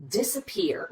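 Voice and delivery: "Disappear" with the middle syllable barely there; rushed middle syllable. Shown as a demonstration. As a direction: rush through the middle of "Disappear" to the stressed PEAR. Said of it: "we just rush through as quickly as we can".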